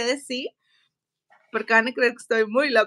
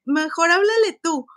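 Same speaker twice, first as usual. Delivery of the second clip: louder, pushing it back; insisting; 3 semitones higher, 5 dB louder than usual. Retold or imitated. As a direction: shove the call onto him. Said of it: "y le dije". (a su hermano, insistiendo en voz alta)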